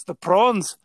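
put-on South African accent on prawns. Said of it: "That's my South African accent".

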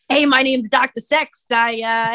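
lightly voiced Brooklyn guy introducing himself; a hint of a Brooklyn character greeting; Brooklyn bro accent. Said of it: "a Brooklyn voice".

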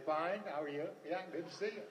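put-on cheer. Masking despair with polite greetings.

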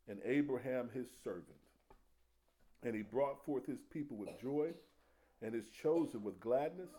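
solemn Bible reading; scripture reading. Acted. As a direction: read it out with weight. Reads scripture.

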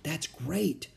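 slow, hushed awe, barely voiced; whispered. A narrator's reading. Annie to Jack, awed by the speech, whispering. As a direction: breathe it out in wonder. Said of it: "whispered Annie".

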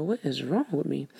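talking through a yawn; words stretched by a yawn. Real, not acted. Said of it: "Excuse me for yawning again".

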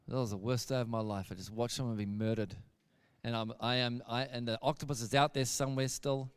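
low, soft, downcast murmur; dejected. Retold or imitated. Gary in bed after watching someone be murdered, dejected. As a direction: sink into quiet misery. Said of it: "bit depressed".

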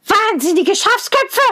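hohe, zänkische Zwergenstimme; zänkischer Zwerg. A narrator's reading. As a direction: giftig schimpfen wie ein Zwerg. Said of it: "schnarchte der Zwerg". (Zwerg beschimpft Rosenrot, hoch und zänkisch)

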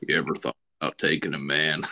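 low, quick mock podcast voice; a mock radio host; podcast voice demo. Shown as a demonstration. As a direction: put on a deep radio-host voice. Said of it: "Let me hear yours".

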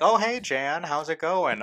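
put-on chirpy old lady voice. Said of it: "they'd be like".

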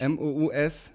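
name each letter separately; spelling it out. Real, not acted. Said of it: "wie schreibt man's denn nochmal?".

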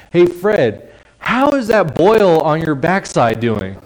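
loud high call across a room; hammed-up shout of an embarrassing question. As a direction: yell it so everyone hears. Calling across crowded room.

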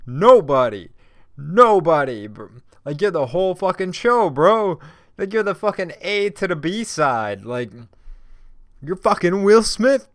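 high, loud hype-man praise; hyped-up shouting. Real, not acted. Hype man shouting praise at Will Smith, high and loud. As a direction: pump him up at full volume, high and loud.

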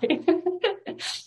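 shaky laugh, close to crying; tearful laugh. Real, not acted. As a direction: laugh through rising tears. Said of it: "I'm trying not to cry".

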